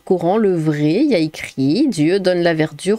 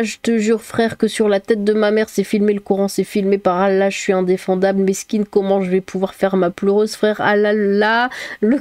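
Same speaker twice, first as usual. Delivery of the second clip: street youth voice. Acted. Reading a comment as a caricatured youth.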